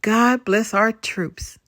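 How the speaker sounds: slow, drowsy prayer; half asleep, drawing the words out; sleepy voice. Acted. Sleepy girl tells Nana her prayer, slow and drowsy. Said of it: "she says in a sleepy voice".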